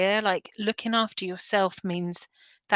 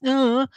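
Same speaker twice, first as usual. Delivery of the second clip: disgusted groan; 5 semitones higher, 5 dB louder than usual. Retold or imitated. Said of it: "when I say it to myself".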